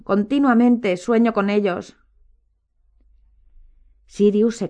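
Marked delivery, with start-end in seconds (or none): 0.0-2.0 high, slow lament; anguished, louder moan. A narrator's reading. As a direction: keep wailing, drawn out. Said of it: "gimió la señora Weasley".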